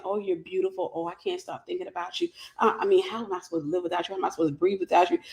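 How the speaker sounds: low, soft, hurried mock gushing; lightly acted lovestruck pleading; mock love-bombing. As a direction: murmur rushed flattery like a smitten suitor. Acts out narcissist love-bombing someone.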